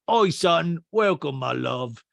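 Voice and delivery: loud greeting in imitation, trailing slowly. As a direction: imitate a man heartily welcoming a guest. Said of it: "P K goes".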